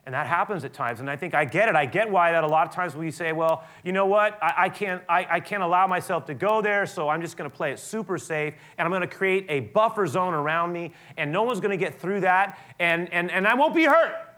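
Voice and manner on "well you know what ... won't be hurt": higher and louder, building to a near-shout; voicing the fearful buffer-zone excuse; mock self-protective voice. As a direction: act out the defensive excuse, rising.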